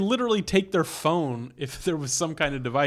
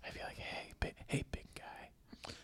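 slow, breathy, seductive, sexy ASMR-style whisper. Acting out a line from a sexy asmr show: put-on sexy asmr whisper. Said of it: "And you whisper the whole time?".

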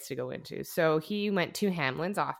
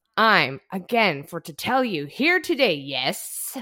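mock drunken ranting, louder; 3 semitones higher, 8 dB louder than usual. Performing part of a speech given by a drunk man: imitating a drunken rant. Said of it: "a drunk person on a rant".

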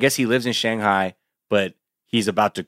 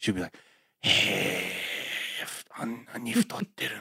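put-on mutter under the breath, much quieter, slower; 10 dB quieter than usual. Recalling outings in the U.S., the speaker quotes her remark under her breath. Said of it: "under her breath".

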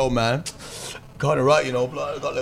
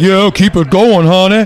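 raised, slow call in soul band frontman style; 6 semitones higher, 11 dB louder than usual. Describing old soul records where the band slides out: imitating a soul band frontman. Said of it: "and the guy's like".

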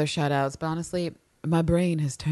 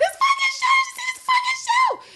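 put-on screaming, higher and louder; 5 dB louder than usual. Describing fans on Tumblr reacting to the show: imitating fans screaming. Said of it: "a bunch of queers screaming like".

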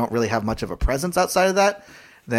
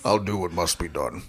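deep, heavy, intense grown-man voice; 6 semitones lower, 4 dB quieter than usual. Joking about a character's adult voice actor, the speaker does a deep, intense man voice. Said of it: "that deep, intense voice".

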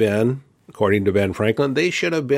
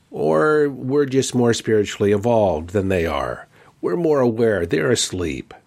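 ordinary delivery

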